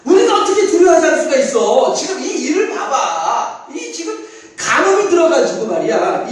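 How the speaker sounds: scoffing objection. Retold or imitated. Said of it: "어떤 사람들은 이렇게도 말을 할 수 있겠죠".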